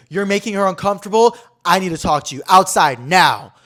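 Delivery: mock stern confrontation; retold confrontation. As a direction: step in and lay down the law. Man confronts stranger in retold scene.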